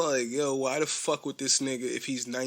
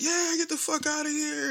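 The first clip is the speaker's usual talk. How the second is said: mock screaming crowd. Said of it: "everybody's, like, starts screaming".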